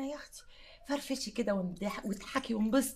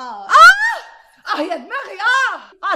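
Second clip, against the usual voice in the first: loud, high cry of pain; pained loud wail; 9 semitones higher, 19 dB louder, slower than usual. Acted. Woman wailing loudly about her aching head.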